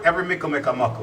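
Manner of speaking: quick Jamaican saying; brisk Jamaican patois sign-off; Jamaican proverb. Shown as a demonstration. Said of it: "I give a Jamaican proverb".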